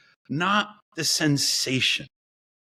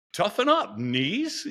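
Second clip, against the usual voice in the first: higher, joking tough-love coach; 5 semitones higher, slower than usual. Retold or imitated. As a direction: bark it at your knees, half laughing. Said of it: "Sometimes I'm like".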